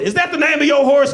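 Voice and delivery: high, loud Southern taunt; mocking Southern caricature; fake Southern accent. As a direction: jeer like a hammed-up Southern judge. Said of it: "He talking in a fake Southern accent".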